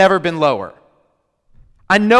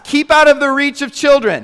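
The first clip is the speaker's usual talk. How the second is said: mock warning label; 8 semitones higher, 7 dB louder than usual. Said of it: "it says".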